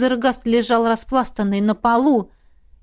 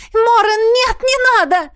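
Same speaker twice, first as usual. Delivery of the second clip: высокий громкий умоляющий крик; умоляй в панике; отчаянная мольба; 12 semitones higher, 5 dB louder than usual. Acted. Миранда умоляет остановить драку. (Миранда умоляет Морена не убивать Джафа, в отчаянии)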